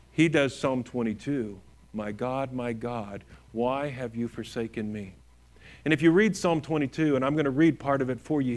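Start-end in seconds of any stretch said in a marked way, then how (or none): 1.9-5.1 low, soft quoted plea; subdued lament. Retold or imitated. Preacher quoting Jesus's words from the cross, subdued.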